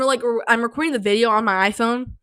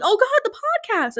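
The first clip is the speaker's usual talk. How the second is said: dream-self panic; 12 semitones higher than usual. Retold or imitated. Recalling the dream, a high wailing dread. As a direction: moan it like a nightmare. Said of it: "and then I'm like".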